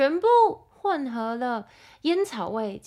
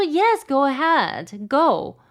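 exasperated; 7 semitones higher, 6 dB louder, much slower than usual. Retold or imitated. Snapping back at impatient dad.

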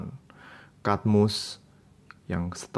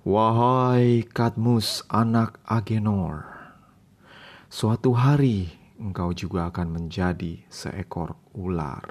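slow solemn voice. Acted. Mysterious unseen voice prophesies.

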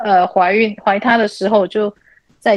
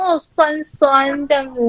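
put-on slow, higher, careful kid's voice; a hint of a small child; imitating little son; 5 semitones higher, slower than usual. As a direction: mimic the boy slowly getting the word. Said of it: "他就说".

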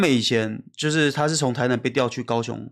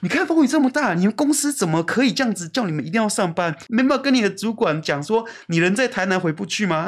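retold complaint; 5 semitones higher than usual. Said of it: "我就说".

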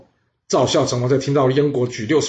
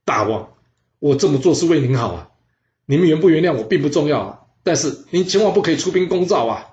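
tearful plea; 4 semitones higher, 4 dB louder than usual. Acted. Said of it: "这难过的将渠向燕喜王哭着说".

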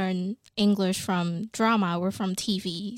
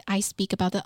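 ordinary talk

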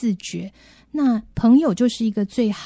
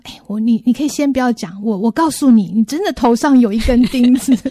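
louder, can't hold it in; exasperated outburst; 2 semitones higher, 6 dB louder than usual. Retold or imitated. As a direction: blurt it out, fed up. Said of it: "好像很忍不住说".

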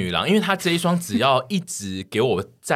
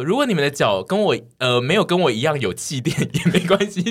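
ad slogan voice; 5 semitones higher than usual. Pretend. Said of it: "代言的那个slogan".

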